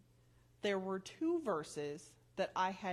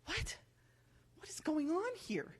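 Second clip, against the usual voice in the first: retold disbelief; 7 semitones higher than usual. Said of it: "And I was just like".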